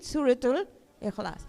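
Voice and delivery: ordinary delivery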